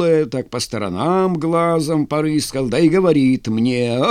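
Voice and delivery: leisurely yarn-spinning with playful swings of pitch; lightly voiced Cossack storyteller. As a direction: spin a tall tale for the lads. (казак травит байку, слегка в образе)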